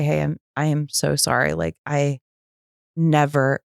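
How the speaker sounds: subdued, earnest amends; sincere apology. Retold or imitated. Woman making amends to her ex-husband, heartfelt and restrained.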